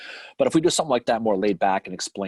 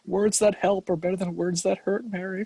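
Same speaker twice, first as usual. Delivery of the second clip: mock scolding; 9 semitones higher than usual. Teasing scolding.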